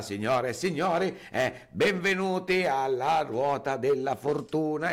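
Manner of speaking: lightly voiced TV host opening a show; Mike Bongiorno. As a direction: announce it like a game-show presenter. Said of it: "Mike Bongiorno che sta per iniziare la puntata". (presentatore televisivo, appena accennato)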